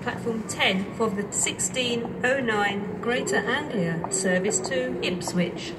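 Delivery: over the station tannoy; echoing platform PA voice; train station announcement. Real, not acted.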